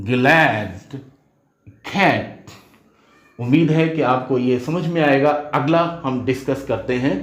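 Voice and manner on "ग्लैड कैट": "ग्लैड", "कैट" with a drawn-out open a; open, lingering a in "ग्लैड", "कैट"; held vowel. Shown as a demonstration. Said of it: "लेकिन यहाँ पर".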